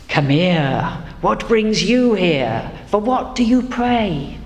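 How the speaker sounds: a hint of a solemn, wise elder, unhurried; wise voice of God. God greeting the frightened traveller, mildly solemn and wise. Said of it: "I'll do that wise voice".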